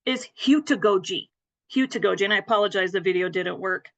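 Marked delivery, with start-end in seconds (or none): 0.4-1.3 hutugogi said as HYOO-tuh-go-jee; correct pronunciation. Shown as a demonstration. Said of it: "the correct pronunciation". 1.7-2.2 hutugogi repeated as HYOO-tuh-go-jee; correct pronunciation. Shown as a demonstration. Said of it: "the correct pronunciation".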